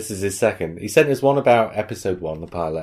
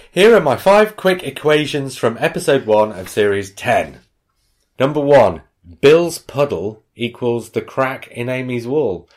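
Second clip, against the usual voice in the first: higher, louder mock Missouri accent; 5 semitones higher, 6 dB louder than usual. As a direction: proclaim the list in a put-on Missouri accent. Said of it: "about the accent I'm about to do".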